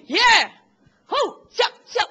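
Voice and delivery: high, loud mock cheer of joy; mock excited cheer. Mocking the woman as if promoted, cheering. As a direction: whoop it up like a promoted servant. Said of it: "Nggak mungkin dia bilang".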